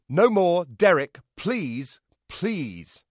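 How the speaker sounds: pleading, loud at first, then easing off; begging. A narrator's reading. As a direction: plead with them to stop. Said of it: "Echo begged them, pleaded with them to stop".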